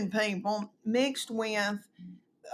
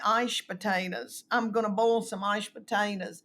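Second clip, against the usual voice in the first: Mama's dialect. Retold or imitated. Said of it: "she'd say".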